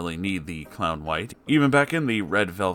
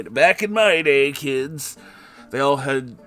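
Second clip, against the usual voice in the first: put-on old-timer voice; 6 semitones higher, 7 dB louder, slower than usual. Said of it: "old-timer joke".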